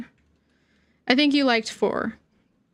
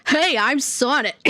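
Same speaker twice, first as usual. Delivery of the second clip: trying the Sonic voice. Pretend. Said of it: "I have to get the Sonic voice".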